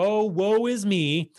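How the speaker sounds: slow, drawn-out mock self-pity; milk the pity, lightly mocking; a mildly hammed-up sad sigh of woe; mock whining. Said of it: "you're gonna complain and go".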